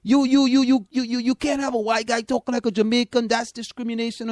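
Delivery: high, loud mock outrage, stammering; mocking outraged media. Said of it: "was in an uproar saying that".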